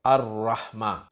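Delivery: अर्रहमा said slowly as ar-rahma with a doubled r; अर्रहमा: slow, careful, lam silent; slow Arabic demo. Shown as a demonstration. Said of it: "तो लाम नहीं पढ़ा जाएगा".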